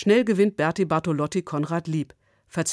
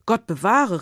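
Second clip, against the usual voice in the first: a mildly raised cry of dismay, falling on bewahre; exclaimed; 4 semitones higher, 4 dB louder than usual. Acted. Herr Egon to Konrad, a mild horrified exclaim. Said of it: "rief der Herr Egon".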